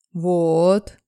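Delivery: loud male voice stretching the word Вот; man draws out Вот, leading her to the answer; drawn out. Acted. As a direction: drag out Вот like a point made. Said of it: "тянет он".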